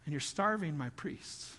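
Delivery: 1 stern accusation. Acted. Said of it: "He is saying".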